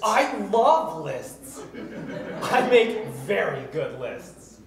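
laughing. Acted. Prince delighted by lists.

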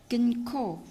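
"Kinh khổ" with an aspirated kh; demonstrated pronunciation. Shown as a demonstration. Teacher showing how 끊고 is read, as "Kinh khổ". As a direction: stress the breath in "khổ". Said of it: "Chỗ này chúng ta sẽ đọc là".

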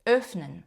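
Öffnen starting with a rounded ö; German ö in Öffnen; O-umlaut. Shown as a demonstration. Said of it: "О-умлаут читається як Ö".

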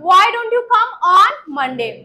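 slow, measured English for repetition; teacher's slow model sentence; slow drill model. Shown as a demonstration. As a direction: say it slowly for the class to repeat. Models sentence for class to repeat.

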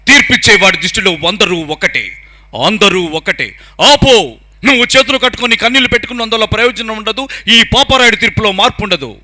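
stern village judge passing a verdict; Rajinikanth as Pedarayudu. Acted. Mimic as the dubbed village elder ruling on brothers, stern declamation. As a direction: pronounce judgement in an emphatic film-hero voice. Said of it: "Rajinikanth గారు పెద్దరాయుడుగా చెప్తే ఎట్లా ఉంటుంది".

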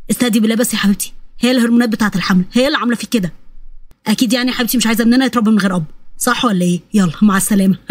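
lightly voiced husband humouring his wife; soothing husband. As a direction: talk her down in a low voice.

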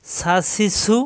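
সা, সি, সু with a hard, thin hiss; sharp unrounded সা, সি, সু; firm s. Shown as a demonstration. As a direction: press the s firmly in সা, সি, সু. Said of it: "শক্ত".

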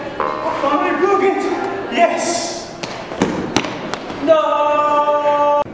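high crow character voice. Acted.

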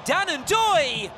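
Ndoye called out high as the shot goes in; "Ndoye" lifted and stretched with a fall at the end; excited call. Real, not acted. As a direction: ride the rising chance with his name. Shot on goal, saved.

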